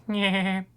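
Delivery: high cartoon-dad chuckle; Peter Griffin laugh. Shown as a demonstration. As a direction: laugh like the Family Guy father. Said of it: "Peter Griffin".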